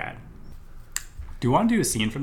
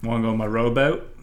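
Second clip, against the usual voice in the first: brash dock worker hollering at the rich; rough fisherman; 4 semitones higher than usual. Acted. Fisherman character.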